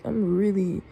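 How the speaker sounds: emotional, pitch rising as it goes on; real upset, emphatic complaint; really upset. Real, not acted. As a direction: protest it, upset and worked up. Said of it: "I'm being emotional right now, but I'm just really upset".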